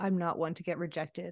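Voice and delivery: mock quiet speaking. Recounting a reality-show contestant who scared her, quoting him speaking quietly. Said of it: "he says quietly".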